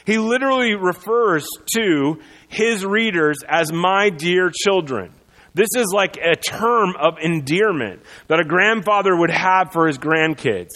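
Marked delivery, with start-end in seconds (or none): 3.7-5.1 put-on slow, tender my dear children; gentle grandfatherly. John addressing readers as grandchildren, slow and tender. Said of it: "John has a gentle grandfatherly tone".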